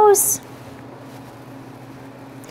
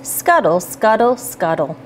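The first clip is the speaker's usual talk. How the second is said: scuttle dropping lower each time; fading away; 4 semitones lower than usual. Acted. Rhyme repeats, fading out.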